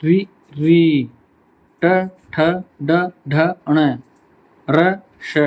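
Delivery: रि री drawn out slowly, then ट ठ ड ढ ण with the tongue curled back; slow teacher demo of रि री ट ठ ड ढ ण र श; retroflex sound demo. Shown as a demonstration. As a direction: curl the tongue back and sound out each letter. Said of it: "यहाँ पे जीभ टच हुई है".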